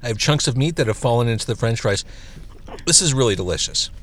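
talking with a mouthful of burger; chewing while talking, mouth on fire; mouth burning from spicy food. Real, not acted. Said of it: "My mouth is on fire".

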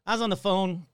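worn-out hoarse voice. Real, not acted. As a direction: talk through a tired, hoarse throat. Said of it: "So please excuse my voice".

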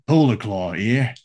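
slow mock-Australian call-in; Australian accent. Polar Claw reporting in, slow Australian accent. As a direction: draw it out in put-on Australian. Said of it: "leaning into my Australian polar bear".

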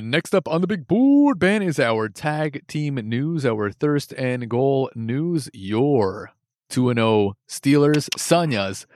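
slow, drawn-out announcer delivery; announcer read. Acted. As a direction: spell it out like a show host.

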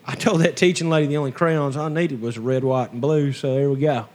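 Appalachian hillbilly twang; hillbilly accent. Pretend. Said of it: "That's my hillbilly talk".

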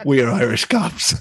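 laughing through a bluffed answer; laughing retold claim. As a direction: retell the bold lie, cracking up. Mock confession retold while laughing.

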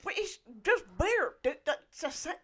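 put-on gruff old bartender, lips over teeth; grumbling toothless old barkeep; old man voice. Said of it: "It's my old man voice".

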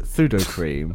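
pseudo said as thudo; lisp. Shown as a demonstration. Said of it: "with a bit of a lisp".

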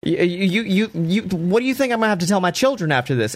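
high, strained, anguished question; anguished plea. Retold or imitated. Roman defending himself to beaten Jay, anguished high plea. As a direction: cry out in guilt at him. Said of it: "He goes".

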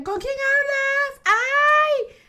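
teasing family. Retold or imitated.

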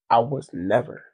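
low croaky voice dropping to near nothing; croaking. Acted. Bragging about his exes, speaking in croaks. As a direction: croak the words out with emphasis. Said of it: "Why are you talking like that?".

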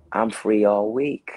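slow, loud eager reply. Retold or imitated. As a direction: answer too eagerly. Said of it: "I'm like".

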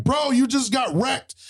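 high-pitched mock incredulity; retold taunt. Gamer answering a trash-talking kid, high retold taunt. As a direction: throw the taunt back, voice jumping high.

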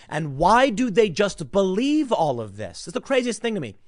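venting disbelief at believers; exasperated disbelief. Real, not acted. Speaker venting at critics, exasperated disbelief.

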